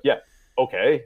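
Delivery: offhand, dismissive brush-off; Vince Vaughn. Retold or imitated. Retelling the frat house presentation, dismissive. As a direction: wave it away without interest. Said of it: "the way Vince Vaughn dismisses it".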